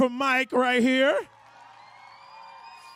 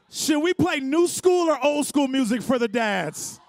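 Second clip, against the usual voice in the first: calling out. Real, not acted. MC calling out to crowd.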